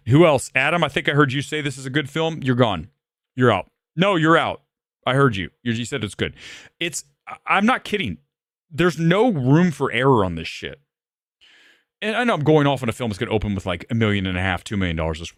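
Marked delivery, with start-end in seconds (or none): 0.1-9.7 imagined firing rant. Retold or imitated. Acting out firing people in screening.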